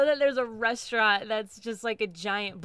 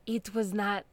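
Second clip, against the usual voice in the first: lightly put-on German accent; 4 dB quieter than usual. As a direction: imitate a movie villain's German accent, lightly. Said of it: "like, this German accent at the end".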